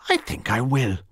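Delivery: comfortably. Acted. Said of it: "Missus Cork said comfortably".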